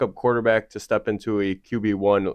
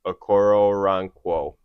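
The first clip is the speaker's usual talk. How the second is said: Wisconsin accent; 3 dB louder, slower than usual. Real, not acted. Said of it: "That was your Wisconsin accent coming in".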